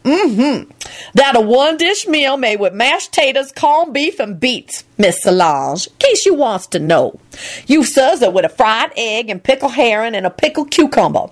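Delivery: grumbling Lucretia. A narrator's reading. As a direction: grumble it high.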